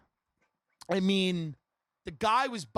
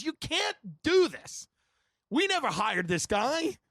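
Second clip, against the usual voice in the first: scolding Mike; 5 semitones higher than usual. Retold or imitated. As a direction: lay down the law. Uncle Mike scolding Howie.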